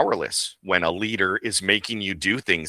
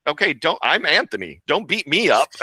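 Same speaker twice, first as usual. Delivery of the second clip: laughing plea; 7 semitones higher than usual. Retold or imitated.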